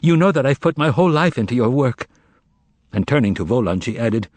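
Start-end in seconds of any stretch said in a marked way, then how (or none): 0.0-2.1 rising higher in sorrowful pleading; sorrowful plea. Acted. Margarita pleads with her lover, rising sorrowful plea. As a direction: plead with him, growing more upset. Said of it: "begged Margarita sorrowfully".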